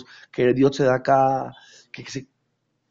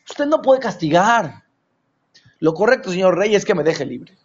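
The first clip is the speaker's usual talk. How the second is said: pleading prisoner. Retold or imitated.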